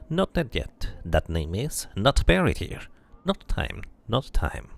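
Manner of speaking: eerie sing-song dustman refusing. Acted. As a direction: turn them away like a strange gravekeeper.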